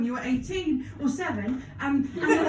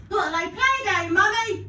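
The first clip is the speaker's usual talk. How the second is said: put-on child voice; 4 semitones higher than usual. Child voice in Peppa Pig bit.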